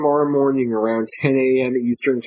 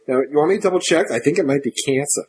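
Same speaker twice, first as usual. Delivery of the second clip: a hint of a Brooklyn accent as the mother; lightly voiced Brooklyn mom; faster than usual. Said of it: "I gave her a Brooklyn accent there".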